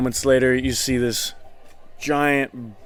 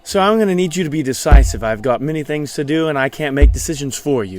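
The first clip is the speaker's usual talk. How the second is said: fast, curt and a bit louder; impatient waiter; 4 dB louder than usual. Acted. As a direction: hurry the dithering customer along. Waiter pushes customer to decide.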